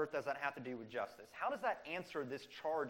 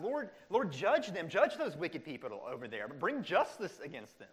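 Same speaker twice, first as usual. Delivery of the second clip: raised pleading cry, louder; crying out to God; 4 dB louder than usual. Retold or imitated. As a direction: call on God to judge the enemies. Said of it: "they cry out to God".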